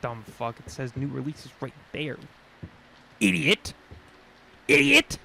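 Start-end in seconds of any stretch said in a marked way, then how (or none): 3.2-3.7 mock yell. Insulting game character. 4.7-5.2 high, loud screamed insult; shrill yell. Acted. Repeated, louder.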